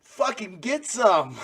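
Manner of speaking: breaking into laughter mid-threat; high, loud, laughing. Acted.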